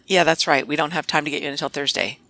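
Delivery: brisk, cold brush-off, words rushed; curt and dismissive. Shown as a demonstration. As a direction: hurry the caller off as if they are a bother. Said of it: "I coached her on tone of voice".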